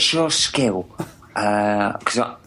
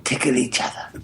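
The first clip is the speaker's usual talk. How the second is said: whispering. Pretend. Whispered suggested command.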